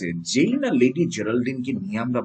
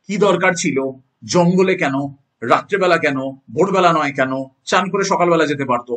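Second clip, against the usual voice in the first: louder, higher barrage of questions; insistent questioning; 3 semitones higher, 5 dB louder than usual. Acted. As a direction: fire off imagined objections, louder. Acts out student's many questions.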